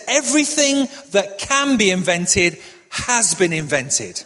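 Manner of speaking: slow, measured mock certainty; very confident. Preacher quoting the Patents Office commissioner, confidently. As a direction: state it slowly as settled fact. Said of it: "once said this very confidently".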